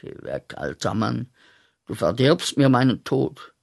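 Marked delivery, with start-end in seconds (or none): 0.0-1.3 leise Abweisung. Acted. Weist Gott ab.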